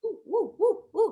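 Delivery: high ooh while stretching; stretching sounds. Real, not acted. Teacher stretches her neck with the kids, high cooing. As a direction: coo with the effort of a stretch.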